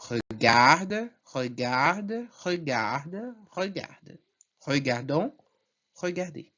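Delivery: regarde four times alike, then regardons, regardez; French endings drill. Shown as a demonstration. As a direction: contrast the silent endings with the sounded ones. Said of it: "Resumindo tudo".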